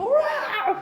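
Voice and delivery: high-pitched imitation of a tantrum wail, with a laugh; hammed-up kid's howl; mock child scream. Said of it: "y el nene grita".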